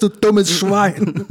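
slow loud furious insult; Kinski rant. Pretend. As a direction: drag the insult out in rage. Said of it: "zum Klaus Kinski". (langsam gebrüllte Beschimpfung)

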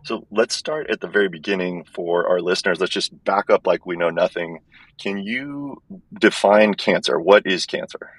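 thin, tinny earbud-mic sound; like talking in a tin can. Real, not acted. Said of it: "It sounds like I'm talking in a tin can".

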